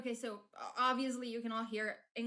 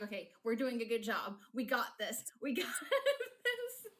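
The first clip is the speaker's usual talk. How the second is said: self-cheer. Retold or imitated. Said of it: "I'm like".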